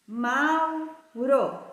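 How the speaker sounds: "Mauro" split as MAU, RO; detached, drawn-out syllables of "Mauro". Shown as a demonstration. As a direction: say "Mauro" in two separate beats. Teacher separates syllables.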